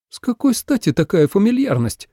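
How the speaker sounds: bristling at the familiarity; angry question. A narrator's reading. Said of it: "гневно спросила Цзинь-цинь".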